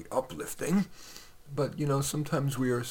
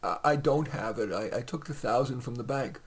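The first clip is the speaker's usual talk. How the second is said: suppressed anger; 3 dB louder than usual. Acted. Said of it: "suppressing anger".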